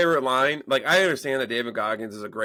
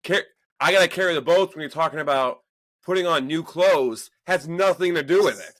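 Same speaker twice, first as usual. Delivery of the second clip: higher-pitched, worked-up retelling; exasperated arguing; 5 semitones higher, 3 dB louder than usual. Retold or imitated. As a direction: argue like a dad at wit's end. Exasperated dad arguing with son.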